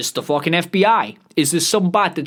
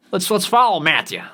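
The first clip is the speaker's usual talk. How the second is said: badly faked celebrity accent, pitched higher; horrible Matthew McConaughey accent; 4 semitones higher than usual. Streamer following the actor, in a botched accent of his. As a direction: attempt a star's accent and miss it. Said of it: "That was a horrible fucking accent".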